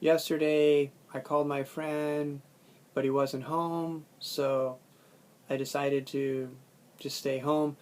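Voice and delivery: slow, pausing between thought groups; phrase "Yesterday I called my friend" with breaks between groups. Shown as a demonstration. Teacher reading a sentence slowly in thought groups. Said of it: "even if I say a whole sentence like".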